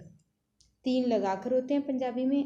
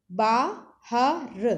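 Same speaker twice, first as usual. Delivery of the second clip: बाहर stretched out very slowly, louder; drawn out slowly; 5 dB louder, much slower than usual. Shown as a demonstration. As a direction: drag बाहर out syllable by syllable. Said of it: "जोड़ जोड़ के पढ़ना है". (बहुत धीरे खींच के बाहर)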